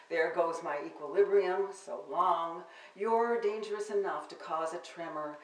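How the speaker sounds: measured, performed poem recital; poetry reading. Acted. Poet reading her sonnets to the audience, performed recital. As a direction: read each line to the audience like a performed poem.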